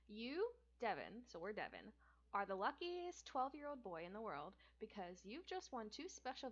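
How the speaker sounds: animated, bouncy read-aloud with big emphasis; story narration. A narrator's reading. Streamer reading a game book to viewers, animated narration. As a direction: play up the big prize with lively swings in pitch. Reads the book's opening aloud.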